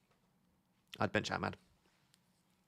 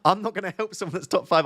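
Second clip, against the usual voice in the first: higher, louder, joking indignation with a laugh; mock outrage; 7 semitones higher, 3 dB louder than usual. Streamer teasing a top-ranked viewer, in mock outrage. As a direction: pretend to be offended, laughing through it. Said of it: "I'm only joking".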